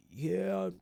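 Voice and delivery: a quick, high mock voice; a brief, high imitation of the speaker, then dropped; half-done impression. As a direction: toss off a lazy imitation of the guy. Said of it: "I'm not even gonna do the impersonation".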